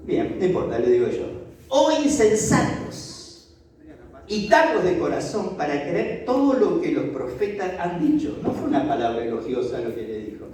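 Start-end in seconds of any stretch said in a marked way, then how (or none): 1.7-8.4 Jesus rebuke. Acted.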